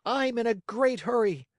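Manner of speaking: put-on high, merry child voice; high-pitched playful puppet call; gay cry. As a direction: urge the steed on gleefully. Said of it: "he cried out gaily".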